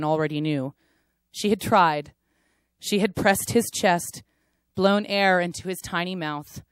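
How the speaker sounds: paced performance reading with dramatic rises; spoken word poem. Acted. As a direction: perform the poem with weighted pauses.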